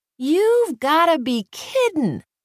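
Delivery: very high-pitched, indignant shriek. A character answers a horned toad's request for a kiss, shrieking. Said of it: "shrieked Reba Joe".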